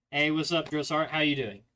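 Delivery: breezy, casual greeting to the drill sergeant; too casual. Shown as a demonstration. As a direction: toss it off like talking to a buddy. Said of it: "I'll show you the wrong way first".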